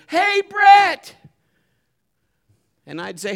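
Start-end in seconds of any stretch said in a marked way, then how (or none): 0.1-1.1 loud, high call across the bank; hollered greeting. Retold or imitated. Bank teller greeting the preacher, loud cheerful holler. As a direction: holler his name cheerfully. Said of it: "she would holler my name".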